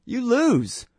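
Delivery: high, amused mock judge with a laugh. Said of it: "He's just laughing, and he's just like".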